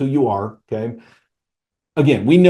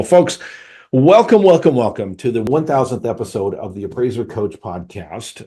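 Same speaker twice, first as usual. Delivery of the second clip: excited welcome. Real, not acted. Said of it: "host's big welcome".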